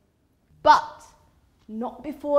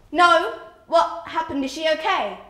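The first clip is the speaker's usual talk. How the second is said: raised, louder worried questions; mildly alarmed; 4 semitones higher, 8 dB louder than usual. Acted. Narrator asking friend about Fazana, mildly alarmed. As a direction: ask urgently after her, a touch of alarm.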